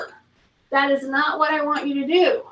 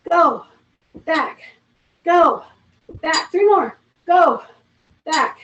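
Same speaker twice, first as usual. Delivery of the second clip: calling out breath and back cues, louder; rep cues; 3 dB louder, slower than usual. Shown as a demonstration. Fitness instructor calling reps to class. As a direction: coach calling each rep over the exercise. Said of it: "counting reps for exercise".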